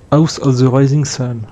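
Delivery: French speaker's slow attempt at an English accent; English title in a French-tinged accent; self-mocked English accent. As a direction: say it slowly in your "very English" accent. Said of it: "avec mon accent bien, bien English".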